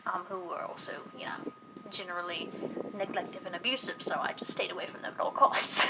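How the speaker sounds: soft whisper about a painful past; whispering about family she avoided; hushed whisper. Real, not acted. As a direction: drop to a whisper, keep it private. Whispers about her abusive family.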